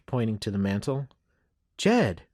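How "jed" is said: high, sharp motherly exclamation; shocked mother pulling her child up; exclaiming. A narrator's reading. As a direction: cry out the boy's name in reproach. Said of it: "Missus McNeil exclaimed".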